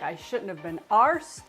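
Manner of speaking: badly done British accent on "arsed"; attempted British accent. American trying out British slang, attempted British accent. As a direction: have a clumsy go at British "arsed". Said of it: "it's like the British accent for".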